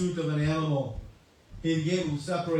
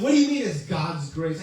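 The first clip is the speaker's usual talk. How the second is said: upset king; 7 dB louder than usual. Retold or imitated. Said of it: "the king became very upset".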